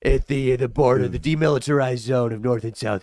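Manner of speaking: lightly put-on Asian accent greeting a dignitary; a hint of a bad Asian accent, formal and polite; greeting Kim Jong-un in a mild bad Asian accent. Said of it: "it's like a bad Asian accent".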